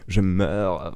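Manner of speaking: a light touch of a melodramatic heroine swooning; understated theatrical despair; theatrical dying heroine. Acted. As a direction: sigh it like a tragic heroine, but only lightly. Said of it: "son personnage très théâtral".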